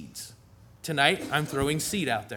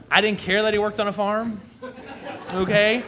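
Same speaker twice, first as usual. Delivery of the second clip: laughing through it, a bit louder; 6 semitones higher, 5 dB louder than usual. Real, not acted. Pastor laughing to the congregation about the farm. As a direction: chuckle as you say it.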